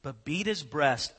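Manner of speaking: measured, slowing scripture read; solemn Bible reading. Acted. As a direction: read the verse with gravity. Reads scripture.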